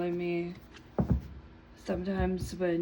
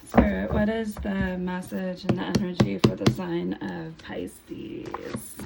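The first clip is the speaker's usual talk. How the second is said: louder, firmer repeat of the question; louder retake; 5 dB louder than usual. Real, not acted. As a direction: push through the hoarseness, call it out again. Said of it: "I'm losing my voice a little bit".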